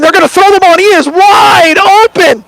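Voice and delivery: rising excited call; excited shout. Real, not acted. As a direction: call it out as the play unfolds. Play-by-play excitement, cry shout.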